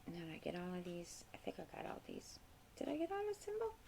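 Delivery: very soft, under-breath self-check; real absent-minded muttering to oneself; talking to herself. Real, not acted. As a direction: mumble it privately, barely audible. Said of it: "I'm talking to myself".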